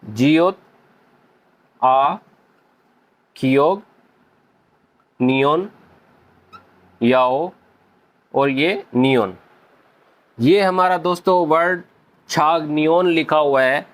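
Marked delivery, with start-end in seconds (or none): 0.0-9.3 each letter name alone with a pause, lower pitch. Shown as a demonstration. Teacher naming each letter while writing the word. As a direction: call out the letters one at a time, slowly. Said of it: "मैं यहाँ पे राइट करता हूँ".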